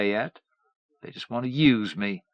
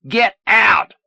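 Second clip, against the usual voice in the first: much higher, louder howl; 11 semitones higher, 10 dB louder than usual. A narrator's reading. Son howling at his mother to leave. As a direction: howl her out of the room. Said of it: "Wayne howled".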